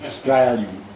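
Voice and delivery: "Australian" without the first syllable, "Stralian"; contracted dialect pronunciation. Shown as a demonstration. Showing the dialect, "Australian" shortened to "Stralian". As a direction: start "Australian" straight on STR. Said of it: "depending on the Australian dialect".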